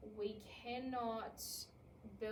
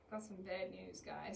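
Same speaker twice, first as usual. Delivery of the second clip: low, heavy doom-laden delivery; mock gloomy bad-news voice, dropping low; gloomy announcement; 3 semitones lower than usual. Shown as a demonstration. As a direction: sound like bad news is coming. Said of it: "I'm inviting the upset".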